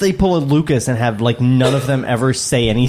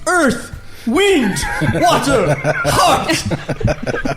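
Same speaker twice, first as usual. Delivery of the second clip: drawn-out, higher shouted words one by one; mock summoning cry; 8 semitones higher, much slower than usual. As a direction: call each word out like a cartoon hero. Shouting out a cartoon summoning roll-call.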